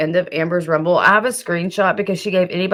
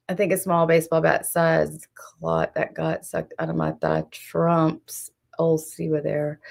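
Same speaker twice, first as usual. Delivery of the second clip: mocking quote; 6 dB quieter than usual. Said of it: "she was doing the scary".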